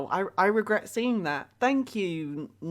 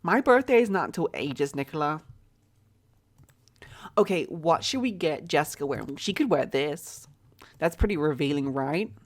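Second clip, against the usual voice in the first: put-on American accent. Picking an employee's outfit for chat, in an American accent. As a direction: still holding the light American accent. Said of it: "I'm gonna stop the American accent".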